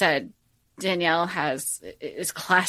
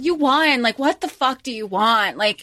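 exasperated outburst; 4 semitones higher, 4 dB louder than usual. Retold or imitated. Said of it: "she's like".

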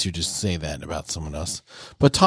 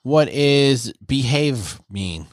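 higher, lightly voiced child's questions; three-year-old; 3 semitones higher, slower than usual. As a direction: ask like a puzzled small child, slowing down. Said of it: "it's like a three-year-old".

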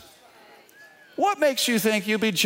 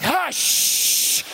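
high, laughing hush; hammed-up rebuke through laughter; laughing mock rebuke; 7 semitones higher, slower than usual. Pastor to wife, laughing, mock rebuke in a high voice.

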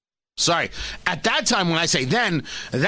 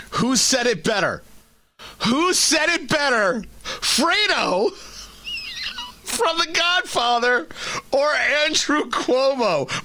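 high, drawn-out quiz show announcer; mock game show host; 6 semitones higher, slower than usual. Host sets up Fredo versus Cuomo contest, mock game show host. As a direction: pose it like a game show teaser. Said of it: "We're gonna need some game show music".

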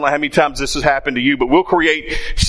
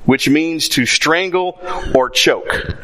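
slow, weighty definition; slower than usual. Shown as a demonstration. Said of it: "slow definition".

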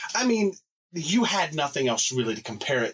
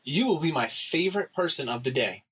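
announcer voice; 4 semitones higher than usual. Pretend. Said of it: "We're gonna say".

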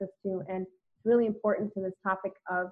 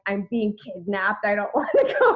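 grumpy protest; 5 dB louder than usual. Retold or imitated. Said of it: "a little curmudgeon inside".

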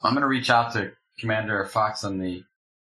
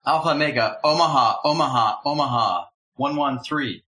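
calling a play at the line; quarterback calling cadence; 2 semitones higher, 3 dB louder than usual. Pretend. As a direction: bark it like a quarterback. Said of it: "Are you Peyton Manning?".

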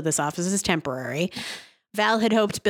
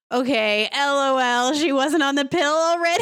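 laughing incredulity; 8 semitones higher than usual. Real, not acted. Host mocks Kelly only now going on the pill, laughing incredulity. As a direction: pitch climbing to a high squeal. Host scoffs at show's plot.

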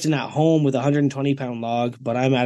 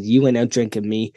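imitated Boston accent, deadpan. Teammate refusing to be outdrunk on shots, deadpan Boston accent. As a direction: lightly mimic a Bostonian's dry challenge. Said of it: "in his full accent said".

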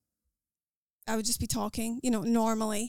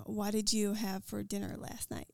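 careful try at an American accent; attempted American accent; 4 dB quieter than usual. Shown as a demonstration. Scottish speaker trying out an American accent on request, careful American accent. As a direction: put on an American accent over your Scottish one. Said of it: "Can you pull off a full non-Scottish American accent".

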